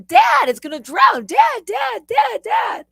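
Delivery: high, loud panicked shouts for Dad; shrieked, urgent retold alarm; screaming. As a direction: scream frantically for help, re-enacting it. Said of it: "I'm literally screaming, going".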